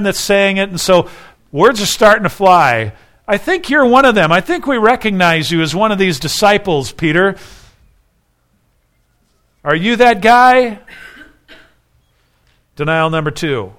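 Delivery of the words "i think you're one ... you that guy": higher-pitched, pressing challenge; acted accusation. Bystanders accusing Peter of being a disciple, pointed challenge.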